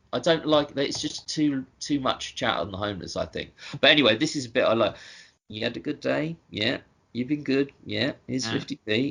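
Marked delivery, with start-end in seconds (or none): 5.4-9.1 put-on motherly tone, quieter. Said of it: "It's just the way he says it".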